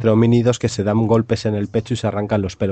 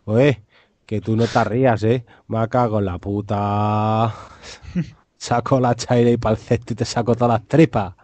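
mock brute threat. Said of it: "de mi pueblo son muy brutos".

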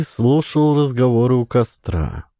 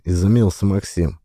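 ordinary delivery

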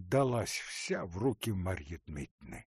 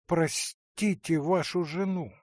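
"простите вашу жену" said aloud, leaning on "вашу"; full-voiced pleading for the wife; voiced tearful plea; 7 semitones higher, 5 dB louder than usual. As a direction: beg out loud, stressing "вашу". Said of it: "Глаза … наполнились слезами".

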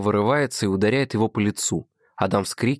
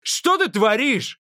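much higher, slow and furious; angry yell; 3 dB louder, slower than usual. A narrator's reading. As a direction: demand it in a rage. Adam shouting after ring drop.

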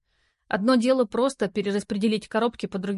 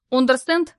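mock menace; 4 semitones higher, 7 dB louder than usual. A narrator's reading. Valera threatens stranger.

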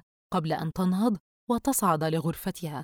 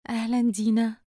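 just-woken drowsy greeting; sleepy and tired; 4 semitones higher than usual. Acted. Daughter woken by her friend's call, drowsy and tired. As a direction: answer the phone half asleep. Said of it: "بوجه ناعس وصوت متعب".

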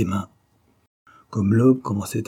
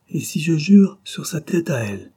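higher, louder plea; a father's desperate, raised cry; 6 semitones higher, 4 dB louder than usual. A narrator's reading. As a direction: throw it out as a desperate challenge. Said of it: "clama Georgie".

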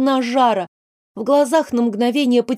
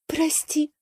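apologetic; 6 semitones higher, 7 dB quieter than usual. A narrator's reading. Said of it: "повинилась Дальяра".

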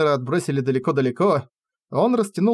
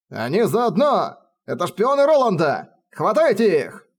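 calling the guards; 6 semitones higher than usual. Acted. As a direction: raise the alarm, rallying the guards. Guards call to seize spies.

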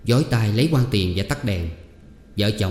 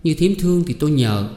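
higher, helpless plea; resigned girl; 6 semitones higher than usual. A narrator's reading. Girl tells aunt she has no money, resigned. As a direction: give up, begging mercy.

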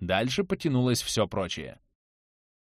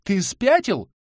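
higher, louder baffled yelp; bewildered cry; 7 semitones higher, 4 dB louder, slower than usual. Acted. Anton thrown on the asphalt, bewildered cry. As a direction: yelp in disbelief. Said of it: "вскрикнул и недоумённо поинтересовался".

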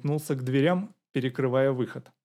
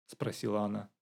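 ordinary delivery, nothing marked

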